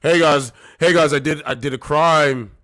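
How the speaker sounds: mocking the thief's mindset to the viewers; mock clueless criminal. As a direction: brag about the crime cheerfully. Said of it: "this is his mindset".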